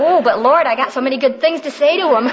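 half-laughing mock plea to the Lord; giggling as she pleads her case; laughing protest. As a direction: laugh through a playful objection.

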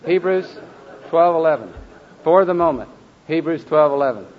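loud, measured group recitation; recytacja chóralna. Shown as a demonstration. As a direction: lead the class phrase by phrase. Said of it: "Okay, here we go".

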